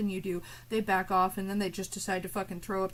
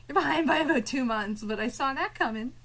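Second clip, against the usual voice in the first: mock Courtney; 3 semitones higher than usual.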